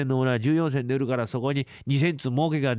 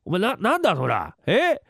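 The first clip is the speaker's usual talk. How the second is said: exasperated uncle; 4 semitones higher than usual. Acted. Uncle scolding Yotaro about what marking up means. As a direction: scold the fool while explaining.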